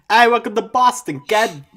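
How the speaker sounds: high, loud hammed-up Boston accent. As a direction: greet them in the hardest Boston accent possible. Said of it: "hit them with the hardest possible Boston accent".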